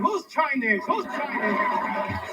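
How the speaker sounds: lightly voiced mock bewilderment; mocking a guest. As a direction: play the confused guest, drawn out. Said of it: "the Chinese one sitting there going".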